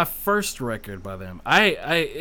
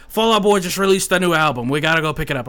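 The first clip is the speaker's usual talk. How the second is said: excited friend; 3 semitones higher, 8 dB louder, faster than usual. Retold or imitated. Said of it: "friend in the sleepover story".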